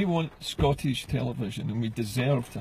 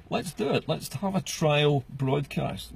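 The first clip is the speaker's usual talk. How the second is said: rallying call; slower than usual. Real, not acted. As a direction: pump them up to act.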